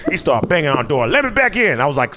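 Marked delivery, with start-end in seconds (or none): 1.1-1.8 raised, high call to be let back in; high pleading yell. Retold or imitated. Roommate locked out calls through the door, high.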